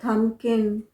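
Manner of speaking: थम्पकिन said as "tham-kin"; silent B. Shown as a demonstration. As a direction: stop on the M in थम्पकिन. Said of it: "म पे ही रुक जाइए".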